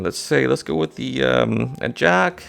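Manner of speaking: mock hesitation, slowing on the guess; feigned guessing. Shown as a demonstration. Magician showing the audience a fake spontaneous guess. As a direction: pretend to pluck a card from thin air. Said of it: "make it seem like you're coming up with that card on the spot".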